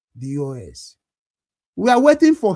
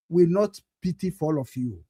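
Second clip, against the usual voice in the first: usual speaking voice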